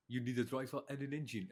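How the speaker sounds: lightly imitated French accent. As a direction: quote Abiteboul in a French accent. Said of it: "In the French accent".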